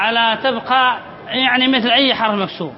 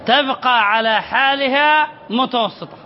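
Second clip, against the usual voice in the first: slow explaining; slower than usual. Shown as a demonstration. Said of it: "ما معنى لا يؤثر على الهمزة المتوسطة؟".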